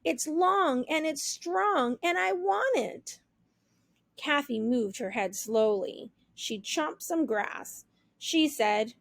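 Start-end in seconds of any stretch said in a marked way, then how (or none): 0.0-3.2 higher pleading voice; begging. Acted. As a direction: plead like a child. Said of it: "Toodles begged".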